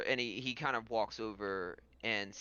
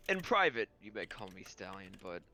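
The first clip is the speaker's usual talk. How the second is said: composed lord character; 3 semitones lower, faster than usual. Acted. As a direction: ask a discreet favor, with hesitant pauses. Game master voices the lord.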